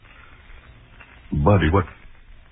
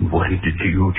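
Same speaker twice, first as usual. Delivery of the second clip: ordinary talk, nothing marked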